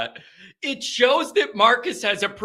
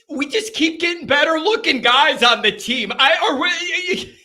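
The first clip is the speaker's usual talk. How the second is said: higher voice, giving way to laughter; laughing; 4 semitones higher than usual. Real, not acted. Host on the team's good-looking guys, breaking up laughing. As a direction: try to talk through the giggles.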